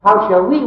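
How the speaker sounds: loud, emphatic WE; stress on WE. Shown as a demonstration. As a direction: repeat it forcefully, leaning on WE. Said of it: "emphasize that".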